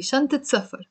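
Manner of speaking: short i and T ending شنطة; Lebanese kasra ending. Shown as a demonstration. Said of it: "the fatha becomes a kasra".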